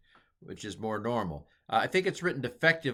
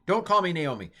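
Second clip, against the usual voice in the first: emphatic plea; 8 semitones higher, 6 dB louder than usual. Acted. Acting Naomi's plea.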